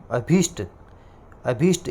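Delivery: अभीष्ट with a long ee after भ; long vowel in अभीष्ट. Shown as a demonstration. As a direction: stretch the "bhee" in अभीष्ट. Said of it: "एक ही बड़ी मात्रा".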